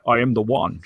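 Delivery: Sean Connery impression. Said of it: "that's actually really good".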